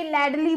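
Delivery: लैडली with an extra ee sound at the end; wrong pronunciation. Shown as a demonstration. Teacher mocking a common mistake: लैडली with ee ending. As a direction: add a trailing ee: लैडली. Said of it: "but वो गलत है".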